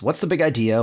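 lightly indignant challenge; quick mock protest; mild retold yell. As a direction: challenge it without really yelling. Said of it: "Donald kinda yelling at the spring".

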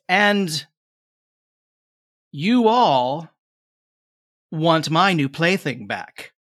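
put-on a playful, sly young witch; maiden witch voice.

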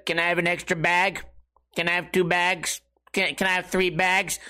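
lightly robotic kid imitation. Weird kid asking for extra paper, robotic voice. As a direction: mimic a monotone teenage customer. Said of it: "it's a weird robotic voice like this".

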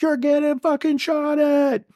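high, slow yelled warning; screaming a warning to a soldier under fire; retold scream. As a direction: scream the warning across the street. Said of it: "I start screaming at him".

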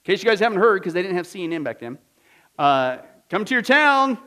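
loud, high barker calling out; hawking pardoner. Retold or imitated. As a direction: hawk it like a market crier. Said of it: "these guys went around and says".

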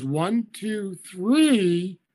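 put-on adult counting for a child, stressing the final "three"; emphasized last number. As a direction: model the count, leaning on "three". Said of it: "When an adult goes".

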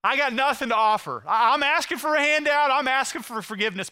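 high, loud, urgent plea; desperate beggar. Acted. Real beggar asking God for forgiveness, desperate pleading. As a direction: beg God with nothing to offer. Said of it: "here's what a real beggar says".

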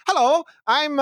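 hammed-up sweet-voiced hello; mock cop persona. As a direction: play a fake friendly courier. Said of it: "they show up and they're like".

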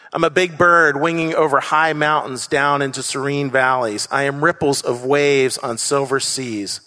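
a hint of reading Maya Angelou aloud; reading a poem's lines. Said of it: "where she says".

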